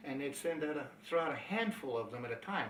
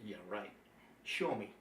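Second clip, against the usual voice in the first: skeptical scoff; 5 semitones lower, 6 dB quieter than usual. Retold or imitated. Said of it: "I said".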